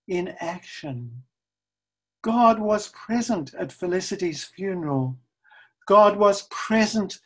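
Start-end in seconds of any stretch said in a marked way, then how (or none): none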